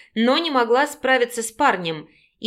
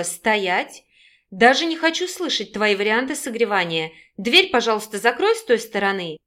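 plain reading voice

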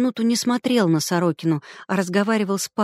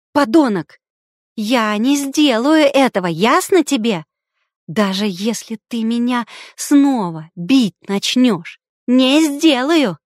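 hysterical scream; 3 semitones higher, 5 dB louder than usual. A narrator's reading. Sister screaming at her brother that she won't do it, hysterical. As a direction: shriek it out, near breaking.

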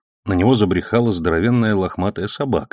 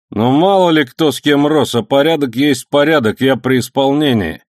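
higher, louder preachy policeman; lecturing; 6 semitones higher, 4 dB louder than usual. A narrator's reading. Policeman lecturing the old friend on duty, preachy. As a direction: lay down the rules like an official. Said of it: "наставительно сказал милиционер".

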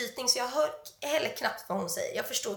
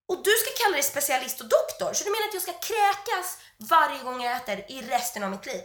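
raised, indignant comeback; indignant retort; 3 semitones higher, 4 dB louder than usual. Retold or imitated. Patient confronting a dismissive specialist, indignant. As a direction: challenge the doctor in disbelief.

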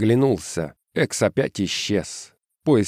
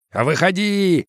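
roaring; 9 semitones higher, slower than usual. A narrator's reading. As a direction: roar the command. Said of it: "взревел дядя Джон".

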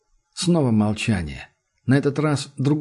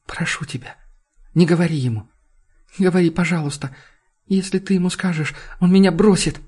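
pleading; 6 semitones higher than usual. A narrator's reading. Джуд умоляет Энди.

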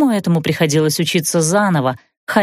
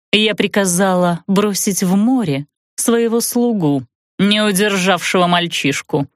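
равнодушно. Acted. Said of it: "равнодушно пояснила ведьма".

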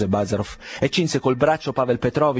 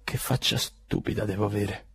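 forced smile; 3 semitones lower, 6 dB quieter than usual. A narrator's reading. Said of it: "con un sorriso forzato".

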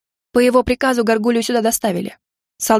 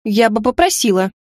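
indignant. Acted. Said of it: "возмутилась я до глубины души".

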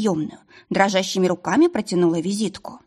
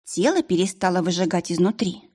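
usual speaking voice

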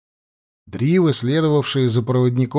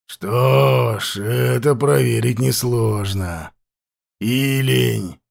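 put-on slow, rasping voice of an old chief; hoarse chieftain; slower than usual. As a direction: question him slowly and hoarsely. Hoarse chieftain speaks again.

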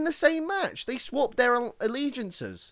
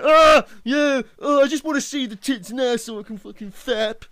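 higher, louder dopey fanboy voice; mocking generic fan; 4 semitones higher, 4 dB louder than usual. Host mocking the generic fan who only wants skin, in a dopey fanboy voice. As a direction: sneer it like a clueless fan. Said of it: "You're generic fan".

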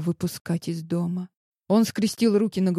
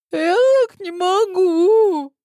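high wailing cry of despair; воет в отчаянии; 11 semitones higher, 6 dB louder than usual. A narrator's reading. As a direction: wail it out, breaking. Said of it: "завыла девушка".

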